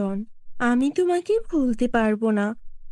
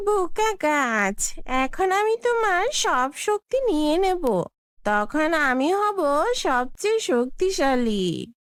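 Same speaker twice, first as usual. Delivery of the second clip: Kalika gloating; 2 semitones higher than usual. Acted. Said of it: "এক দুষ্টু জাদুকরি কালিকা".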